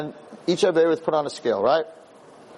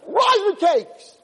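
high, drawn-out shout, louder; shouting good angel; 4 dB louder, much slower than usual. Acted. The good inclination shouting back at the tempter, high and loud. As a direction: yell it back in defiance. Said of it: "right, he's like".

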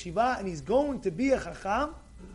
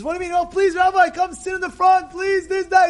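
high, loud, urgent pleading; begging; 7 semitones higher, 5 dB louder than usual. Acted. Father-in-law begging the rabbi to sit in front, pleading. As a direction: beg insistently, words tumbling out. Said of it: "He's begging him".

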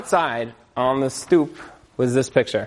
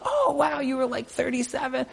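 very high "Oh, wow" trailing softer; mock surprised cry; 11 semitones higher, 6 dB quieter than usual. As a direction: fake astonishment, then a quiet jab. Ex-wife reacts in mock surprise.

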